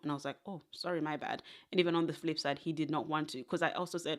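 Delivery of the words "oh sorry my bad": soft, sheepish 'my bad'; a quiet little retreat; mild retold apology. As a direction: back off quietly, imitating an apology. Retold apology after being rebuffed.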